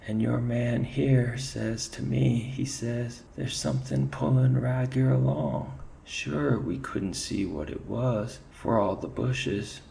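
nod along in a high Irish lilt; shaken Irish ferret. Acted. Ferret backing up his mate to the chief, Irish lilt.

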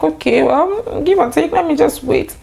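high-pitched "oh well, I'll wait"; acted resigned acceptance. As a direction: voice the thought up high, putting off worry. Acting out her resigned inner reply.

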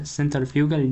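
"سنتر فيوجال" slowly, as an unsure attempt at centrifugal; awkward, hesitant go at "سنتر فيوجال"; struggling mispronunciation. Real, not acted. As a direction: feel your way slowly through "سنتر فيوجال". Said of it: "اعذرني يعني على النطق التعبان".

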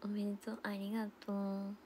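soft whispered thanks. Real, not acted. Thanking viewers in a whisper. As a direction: whisper it gently. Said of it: "whispered thanks".

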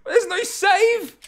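high, loud laugh-cry of disbelief; laughing in despair. Real, not acted. Gamer learns there was no save point, laughing in despair. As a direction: crack up at the disaster, almost in tears.

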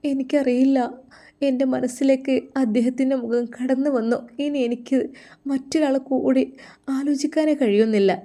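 a daughter begging to be understood; lovesick daughter. Acted.

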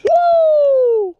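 sudden high shout at a bass strike; excited shout. Real, not acted. Dad shouting to his son as a bass hits, excited.

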